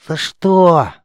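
high, loud outraged yelp; indignant cry. A narrator's reading. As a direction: protest the smack, indignant. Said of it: "возмутился тот". (возмущённый высокий выкрик)

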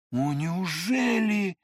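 slow, startled exclaim; frightened cry. A narrator's reading. Narrator fearfully asks the prince, frightened cry. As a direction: gasp it out in alarm. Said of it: "вскричал я испуганно".

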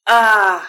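loud bellow of pain; loud cry of sudden pain; pained yell. A narrator's reading. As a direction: howl as the knee hits. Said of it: "заорал он".

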